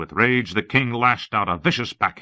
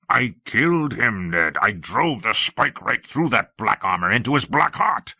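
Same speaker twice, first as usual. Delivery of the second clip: raised pitch, vengeful recollection; bitter fervor; 4 semitones higher than usual. Acted. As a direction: relive the killing with rising heat. King fiercely recalls killing his rival.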